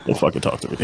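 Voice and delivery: whispered brush-off; mock whisper. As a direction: hiss it under your breath to push them away. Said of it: "I'm like".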